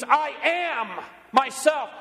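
slow, drawn-out I AM with weight on am; stressed slow I am. Acted. Preacher to congregation, drawing out "I am" slowly. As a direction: lean on "am" in "I am myself" slowly. Preacher voicing Jesus' words.

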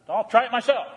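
mildly mocking the quitter's boast; mock stubborn believer. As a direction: scoff it like a proud fool. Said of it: "and say".

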